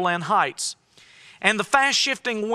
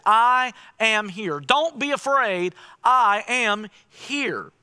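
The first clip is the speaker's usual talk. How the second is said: calm Jesus; slower than usual. Acted. Jesus quote, slowed.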